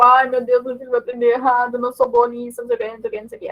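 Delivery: leve imitação de lamúria; touch of mock fretting, trailing into filler; melindres encenados. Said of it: "com melindres, tipo". (melindre de brincadeira)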